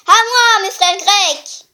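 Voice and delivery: loud call for help, drawn out; shouting. Acted. Oedipus shouting for his Greek brothers, loud. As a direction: call your brothers to battle. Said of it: "Édipe hurlant".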